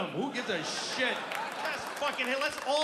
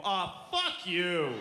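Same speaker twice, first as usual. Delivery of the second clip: slow, lower drawn-out brush-off; mock dismissive parent; 5 semitones lower, much slower than usual. Other parents brushing off a no-TV parent. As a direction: dismiss the hippie parent slowly. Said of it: "They go".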